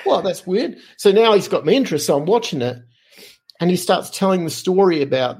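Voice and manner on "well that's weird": high-pitched mock double take, oh hey; surprised. To himself watching the interview, a high surprised oh hey. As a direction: pitch way up in sudden recognition. Realizing he used to work there.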